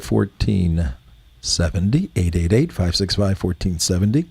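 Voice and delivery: lightly put-on calm public broadcaster read; PBS voice. Shown as a demonstration. Host giving the phone number in a lightly put-on PBS voice. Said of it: "That's my P B S".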